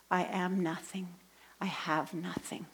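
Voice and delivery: soft, emptied-out admission; quiet despair. Retold or imitated. Crying woman realizing her state in the church, quiet despair. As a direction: drop to near a whisper, defeated.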